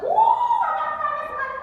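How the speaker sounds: high, loud whoop of mock excitement; hammed-up frantic eagerness, high and loud; sudden excitement. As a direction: burst out as a suddenly eager buyer. Broke people suddenly eager to buy.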